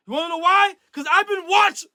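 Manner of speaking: high voice broken by hiccups. Real, not acted. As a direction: yell through the hiccups. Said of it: "I got the hiccups. I can't even yell".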